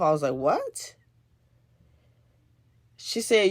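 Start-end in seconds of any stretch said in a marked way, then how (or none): 0.3-0.9 thrown off. Retold or imitated. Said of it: "it threw me off".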